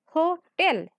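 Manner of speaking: "Hotel" with weight on the final "tel"; stress on second syllable. Shown as a demonstration. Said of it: "We are stressing tel".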